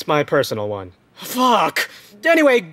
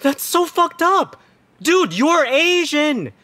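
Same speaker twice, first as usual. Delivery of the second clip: outraged disbelief; 8 semitones higher than usual. Acted. Sister scolding brother for racist remark, appalled high cry. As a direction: call him out, stunned and high.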